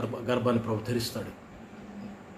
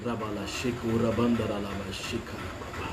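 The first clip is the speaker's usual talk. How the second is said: speaking in tongues; 3 dB quieter, much slower than usual. Real, not acted. Speaking in tongues mid-sermon.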